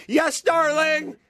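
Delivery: high, slow, timid yes darling; fearful reply. Retold or imitated. Grandfather answering his wife, high and timid. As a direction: squeak it out like a scared husband. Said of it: "fear in his voice".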